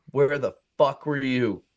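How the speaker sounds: slow, level challenge; mock-tough challenge. Teller bluffs back at the real pimp, measured challenge. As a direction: bluff toughness without raising the voice.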